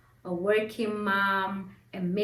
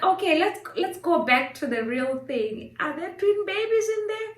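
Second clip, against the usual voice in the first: retold anxious question; 9 semitones higher than usual. Pressing the doctor about twins.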